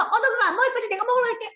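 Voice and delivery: put-on high-pitched child voice; pushy little friend, voiced high and playful; snack-grabbing kid. Child eyeing a friend's snack, high cheeky voice. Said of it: "친구가 와서".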